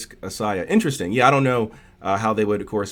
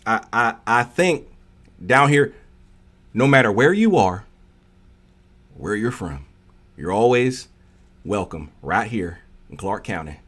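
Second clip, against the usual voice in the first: put-on country accent. Streamer showing fans a country accent, playful Southern twang. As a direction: put on a down-home Texas twang. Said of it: "I can do a country accent".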